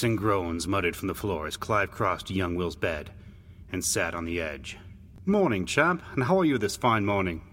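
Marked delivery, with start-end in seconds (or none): 5.2-7.4 lightly voiced brother, lifted greeting; cheery big brother. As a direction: greet a younger brother, starting high. Big brother greets sick boy.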